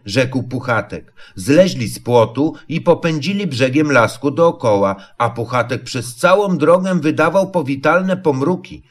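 ordinary delivery, nothing marked

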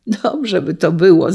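usual speaking voice

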